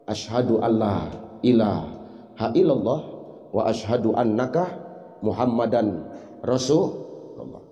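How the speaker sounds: low, slow, reverent recitation; hushed, low, drawn-out creed; blind man's shahada. Acted. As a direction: voice the blind old man solemnly.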